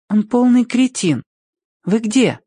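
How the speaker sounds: high-pitched sweet courtesy; polite girl's high voice. A narrator's reading. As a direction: explain sweetly to a hiding creature. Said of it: "тихо и очень вежливо обратилась к крысе".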